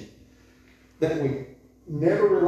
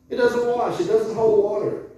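preaching emphasis; 6 semitones higher, 5 dB louder than usual. Real, not acted. Preacher raises voice on point.

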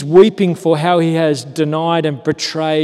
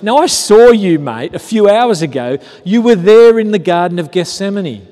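accusing bystander; 4 semitones higher, 5 dB louder than usual. Retold or imitated. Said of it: "It's someone who says".

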